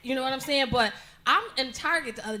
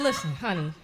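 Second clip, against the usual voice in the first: dropped low, measured address; mother to daughter; 8 semitones lower than usual. Retold or imitated. Mother about to break news to her daughter, dropped low. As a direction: lower the voice to set a child straight. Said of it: "I said".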